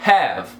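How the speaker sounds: "Have" ending on the v sound; "Have" as one syllable, E silent; silent final E. Shown as a demonstration. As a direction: say "Have" with no vowel after the v. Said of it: "você não pronuncia esse E".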